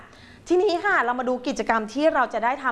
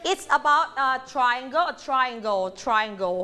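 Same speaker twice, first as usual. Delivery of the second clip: slow, drawn-out model sentence; slow model reading; much slower than usual. Shown as a demonstration. Teacher modelling a sentence slowly. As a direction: read it slowly for the class to copy.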